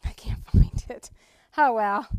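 laughing it off under breath. Real, not acted. To the class after failing to find a verse, laughing. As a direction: giggle through the words. Can't find the word in Bible.

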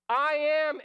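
God answering the doubting Moses, loud and firm; booming declaration. Pretend.

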